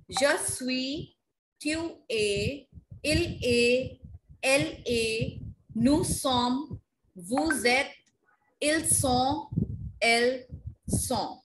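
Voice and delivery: careful French conjugation recital, "Je suis" to "elles sont"; pronunciation drill. Shown as a demonstration. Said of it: "This is how we pronounce it".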